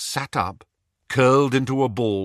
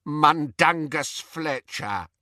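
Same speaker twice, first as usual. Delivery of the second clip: slow, higher croak; reluctant croaking elf; 5 semitones higher, slower than usual. Acted. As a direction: drag the name out of him. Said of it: "croaked the elf".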